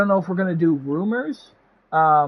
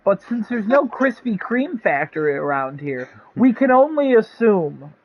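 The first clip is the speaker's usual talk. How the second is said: put-on old radio announcer; 2 semitones higher than usual. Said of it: "the broadcast ends there".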